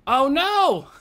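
high, loud cry of dismay. Real, not acted. Gamer finding they are short of pieces, dismayed cry.

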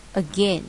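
"again" stressed on the second syllable. Shown as a demonstration. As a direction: say "again" with the weight on -GAIN. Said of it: "nhấn âm hai".

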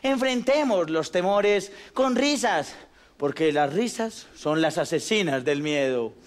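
sincere. Acted. Closing message, slow.

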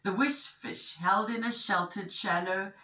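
animated picture-book narration; measured, expressive storytelling; story reading to children. A narrator's reading. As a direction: tell it clearly to young listeners.

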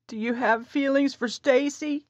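high, sudden question; wife suddenly asking her husband, high and abrupt; blurted out. A narrator's reading. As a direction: let it burst out. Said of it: "she blurted out".

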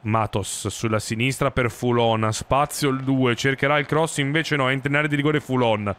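lively sports commentator call; play-by-play commentary. Acted. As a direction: narrate the action like live TV. (telecronaca sportiva)

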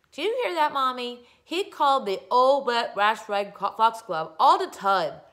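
high, loud whine; whiny tattling. Acted. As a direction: whine to mommy. Crybaby tattling to mother.

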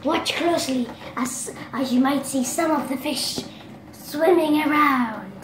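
hammed-up nature documentary narrator; weirdo voice. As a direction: put on a silly documentary voice. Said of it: "I'm just doing this weird, weirdo voice".

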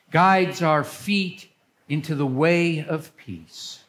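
measured, solemn worship leading; liturgical reading. Acted. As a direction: lead the congregation's prayers.

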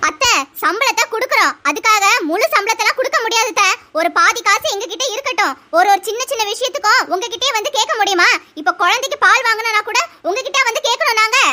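a lightly voiced young wife excusing herself; daughter-in-law voice. Daughter-in-law bargaining over salary.

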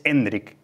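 "Hendrik" said slowly as EN-drik; natural pronunciation. Shown as a demonstration. Guest recommending the natural name, "Hendrik" as EN-drik. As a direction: sound out "Hendrik", closed on the k. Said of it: "la forma más natural de llamarle".

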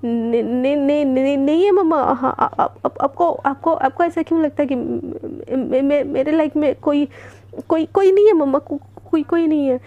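shaky stuttered denial, words breaking apart; nervous stammer. Acted. Devika denying to mom there's someone in her life, stammering. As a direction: stutter through the denial in fright. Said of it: "और ज़्यादा हाथ पैर काँपने लगते हैं".

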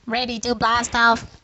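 slow robot voice. Pretend. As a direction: speak slowly like a robot. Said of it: "Have you become a robot?".

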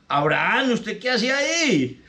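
put-on lady finding the drunk on her doorstep, high and startled; surprised lady. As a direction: gasp out his name in surprise.

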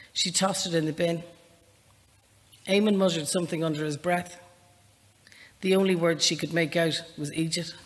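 lightly voiced novel reading, measured and even; story narration. Unhurried reading voice, only a little apart from her chat. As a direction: author reading her opening scene to the interviewer, calm narration.

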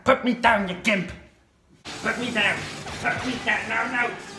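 high frantic yelling; panicking gamer. Real, not acted. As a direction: yell it in a panic. Gamer yelling at his game.

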